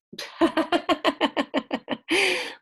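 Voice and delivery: high, long staccato giggle; laughing. Real, not acted. Teacher laughs at her own tongue-twister slip, high giggling laugh. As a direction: crack up in a rapid run of giggles.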